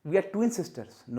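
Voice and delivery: very slow wrong sentence; wrong example, slow. Shown as a demonstration. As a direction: stretch out We are twin sisters as the mistake.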